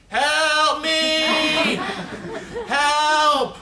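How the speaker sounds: high desperate yell for help; a little boy's high shout for help; screaming for help. Retold or imitated. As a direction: scream it at the top of your lungs, stuck and panicking. Boy screaming for help from tree.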